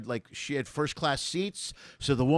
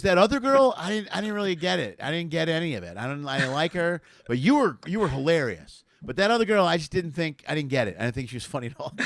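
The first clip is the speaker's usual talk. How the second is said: mock fan gushing. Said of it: "And she goes".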